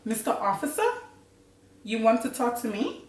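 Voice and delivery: lightly perked-up, questioning politeness. Pretend. Rehearsing a greeting to a police officer, perked up. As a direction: perk it up a touch for the officer. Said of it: "perk it up".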